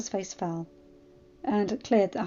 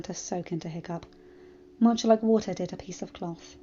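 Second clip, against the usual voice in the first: measured audiobook-style narration; story narration; 2 semitones lower than usual. A narrator's reading. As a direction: read the tale aloud evenly. Narrates the fan fiction.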